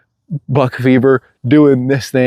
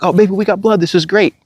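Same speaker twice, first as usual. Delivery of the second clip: retold excitement; 9 semitones higher than usual. Retelling his joy at finding blood.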